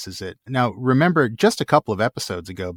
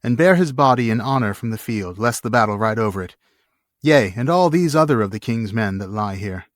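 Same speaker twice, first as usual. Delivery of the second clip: commanding. Acted. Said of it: "he said".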